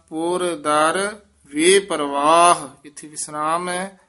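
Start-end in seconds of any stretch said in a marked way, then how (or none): 0.1-2.7 ਪੁਰ ਦਰ kept apart, then ਵੇ ਪਰਵਾਹ; pause after ਪੁਰ ਦਰ. Shown as a demonstration. Teacher correcting phrasing for students, words kept apart. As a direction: separate ਪੁਰ ਦਰ, don't run them together. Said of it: "ਪੁਰ ਦਰ ਇਕੱਠਾ ਨਹੀਂ ਕਹਿਣਾ".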